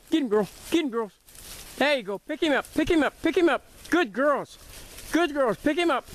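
high encouraging dog calls; yelling from the sidelines. Real, not acted. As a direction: cheer the hounds on. Encouraging the dogs on the trail.

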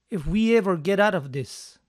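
"ever" added and stressed before get out; emphasis with ever. Shown as a demonstration. Teacher models "ever" for emphasis, stressed. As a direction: lean on "ever" to stress getting out. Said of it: "si quieren poner más énfasis al verbo salir".

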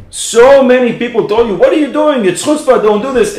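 high, loud indignant scolding; retold yelling. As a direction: shout him down again in the retelling. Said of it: "We yelled at you".

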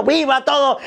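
high, mild mock yell; acted cheering. Comic recalling his eager replies at the Grito, mock shouting. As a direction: cheer along with the crowd. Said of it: "yo estaba gritando".

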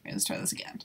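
softly whispered restart. Real, not acted. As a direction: hush it to yourself. Quietly resetting after failure.

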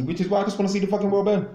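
Joker impression. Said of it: "I'm Heath Ledger's the Joker".

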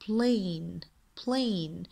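plane stretched out as "playn", E unsounded; silent E demo. Shown as a demonstration. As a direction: say plane slowly, ending on the N. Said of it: "يكتب ولا يلفظ".

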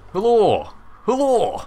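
high, loud "Hello" swooping up and falling; exaggerated high-pitched "Hello", uh in the first syllable; demonstrated hullo. Shown as a demonstration. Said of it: "It's like that".

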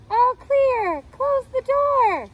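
high mock yell from the fridge. A narrator's reading. Ranch dressing yelling from inside the fridge, mock yell. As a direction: call it out high and bright. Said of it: "yelled the ranch".

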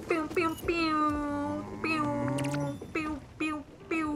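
high, slow mock blaster pews; playful pew noises. Gamer making pew sounds at the cow. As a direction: zap the cow for fun.

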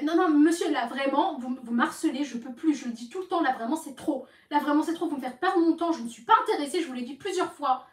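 re-enacting a fed-up, insistent refusal; exasperated protest. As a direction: plead firmly with a pushy caller, as retold. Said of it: "J'ai parlé comme ça".

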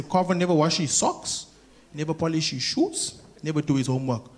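low-voiced mother listing faults; complaining mother. Mother complains about her son at home, low and contained. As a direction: list the faults in a low, level grumble. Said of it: "My mother will say".

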